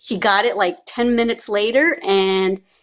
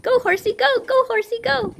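sing-song cheer; 11 semitones higher than usual. Real, not acted. Playing horsey with baby.

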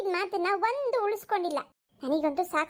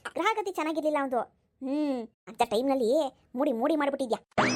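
put-on an old mother-in-law doting on her son; 2 semitones lower than usual. Old mother-in-law taunts daughter-in-law. (ಮಗನನ್ನು ಹೊಗಳುವ ಮುದುಕಿ ಅತ್ತೆ ಧ್ವನಿ)

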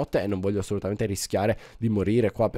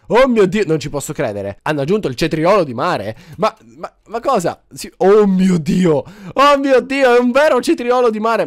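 loud, much higher cries of disbelief; amazed shouting; 8 semitones higher, 9 dB louder than usual. Real, not acted. Gamer finding a new item for viewers, amazed shouting. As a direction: shout it out, stunned and thrilled.

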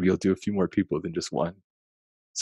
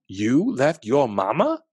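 put-on higher, slow surprised child; a grandchild amazed at the news; lightly voiced wondering child; child's voice; 4 semitones higher, 3 dB louder, slower than usual. A narrator's reading. Child voice in story.

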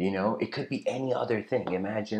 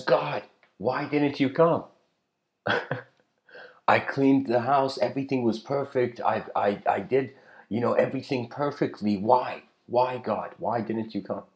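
indignant complaint; 3 semitones higher than usual. Retold or imitated. Woman in her dream reproaching God, aggrieved. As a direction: demand an answer from God.

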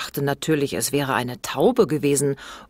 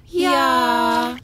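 put-on flat dutiful kids' yes, louder; bored honk; 10 semitones higher, 5 dB louder than usual. A narrator's reading. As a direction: drone it like a bored horn. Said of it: "wie zwei langweilige Hupen". (gelangweiltes Hupen-Ja)

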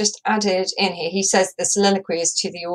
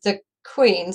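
stressed on queen, da-DUM beat; iambic stress. Shown as a demonstration. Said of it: "counting in that iambic beat".

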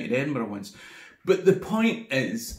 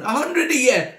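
higher, louder scornful Scottish yell; brash drunk calling out a whole army; cocky shout; 8 semitones higher, 6 dB louder than usual. Retold or imitated. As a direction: shout the dare back at the king. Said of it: "the wee Scottish guy's going".

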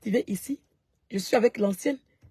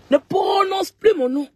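slow, higher, louder, each word hammered out; angry shout; 7 semitones higher, 4 dB louder, slower than usual. Real, not acted. Live streamer to her rival online, slow angry shout. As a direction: shout it at her so she never says your name.

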